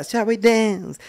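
high, lightly put-on posh invitation; lightly posh invite. Showing how good a dancer she is, inviting with a lightly put-on air.

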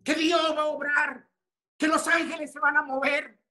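high, loud, challenging cry; preaching shout. Real, not acted. Preacher demanding of the congregation whether they believe, shouting. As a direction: hammer the question at them.

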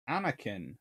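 ordinary talk

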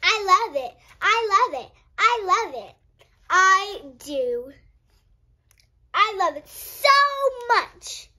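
loud, excited declarations; gushing love. Acted. Minnie gushing to Freddy about spaghetti, loud and excited. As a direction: gush about your favourite food.

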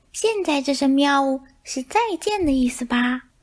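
high, lightly voiced curious mice; chirpy little mouse question. Mice chatter to cat. (小老鼠好奇地问，声音尖细)

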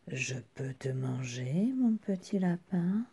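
hushed, lightly voiced wolf question; sly wolf. Wolf asking to eat the rabbit, hushed sly question. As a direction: ask it softly, rising at the end.

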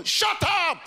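very high mock yell; strict mum. Strict mum refusing her child, high mock yell. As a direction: cut the child off with a shrieked order. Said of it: "my parents are very strict".

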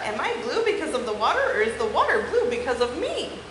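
lively, expressive picture-book read-aloud; story reading for children. Acted. Teacher reading a unicorn book to her class, animated. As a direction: read it to the kids with wide swings in tone.

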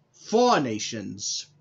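Four Nations repeated slow and loud; slow down and land "Four Nations"; emphatic repeat. Shown as a demonstration. Wrestler reading her title, repeating "Four Nations" slow and loud.

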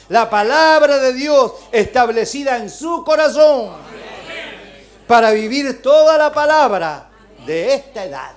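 loud, ringing preacher's cry; fervent sermon peak; preaching at full force. Real, not acted. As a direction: lift it to the back row. Preaching climax.

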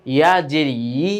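final ই pressed into a tense yee; with pressure. Shown as a demonstration. Teacher showing pupils ইয়া's sound, with pressure. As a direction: lean on the y glide before ই. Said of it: "একটু চাপ দিয়ে".

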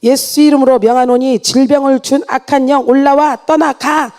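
imitated exorcist's rebuke; forceful exorcism command. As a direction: order the spirit out, firmly. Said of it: "더 강하게 축사하니".

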